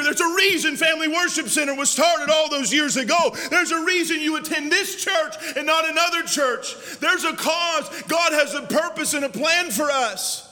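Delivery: fiery preaching. Acted. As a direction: preach it with full fire to the church. Preaching at full force.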